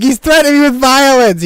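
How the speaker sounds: high, loud whiny complaint; mock victim voice. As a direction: squeal it like a wronged guy. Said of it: "yeah, just, like".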